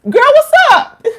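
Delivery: loud, very high holler hello; excited greeting. Real, not acted. Greeting Erica as she joins, excited high shout. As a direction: call out to a friend who just arrived. Greets a viewer joining live.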